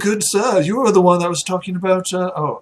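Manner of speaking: lightly voiced, uncertain aristocrat; dithering well-to-do acquaintance; muddled noble. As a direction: puzzle over a half-remembered stranger. Game master plays the noble.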